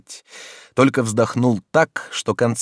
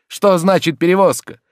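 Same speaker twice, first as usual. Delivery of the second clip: high, loud reproachful scolding; indignant master; 12 semitones higher, 7 dB louder than usual. Acted. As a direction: scold the servant in wounded outrage. Oblomov continues lecture.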